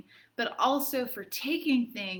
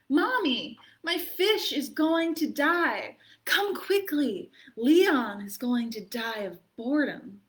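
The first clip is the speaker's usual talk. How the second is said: put-on higher, louder childish cry; alarmed little boy; 5 semitones higher, 5 dB louder than usual. Arthur calling his mommy about his fish, alarmed. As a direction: call for mom like a fretful child.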